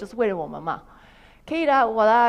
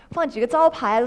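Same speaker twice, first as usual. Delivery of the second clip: ordinary delivery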